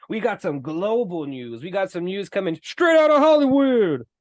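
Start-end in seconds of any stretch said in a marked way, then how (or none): 1.6-4.1 punched-up show announcer delivery; mock announcer. Host introducing the global news segment, mock announcer.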